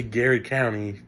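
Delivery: Gary County said the local way; local pronunciation. Shown as a demonstration. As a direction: Garrard County pronounced as "Gary County". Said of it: "it's, it's wrong".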